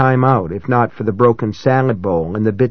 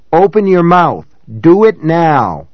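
screaming; 5 semitones higher, 5 dB louder than usual. A narrator's reading. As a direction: scream it in his face.

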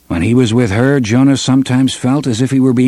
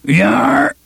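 growled; 4 semitones higher than usual. Acted. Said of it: "he growled".

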